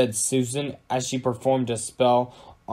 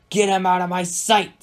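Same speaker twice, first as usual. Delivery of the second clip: louder, higher irritated command; snapped order; 7 semitones higher, 6 dB louder than usual. A narrator's reading. King dismissing the Magic Master, snapped. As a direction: order him out, pitched up and forceful. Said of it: "snapped King Henry".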